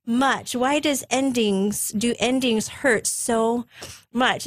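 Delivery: high, slow lament easing down; drawn-out, mildly plaintive plea; retold tearful plea. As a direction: act out a heartfelt question to God. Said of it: "I began to cry and thought".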